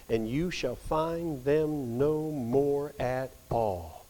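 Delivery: slow, deliberate reading of a long list; slow solemn reading of scripture. Acted. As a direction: weigh each item as you read it out. Reads the list from Revelation.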